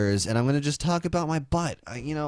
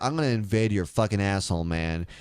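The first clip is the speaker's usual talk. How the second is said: mock Romney; 4 semitones lower than usual. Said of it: "Mitt Romney's gonna be like".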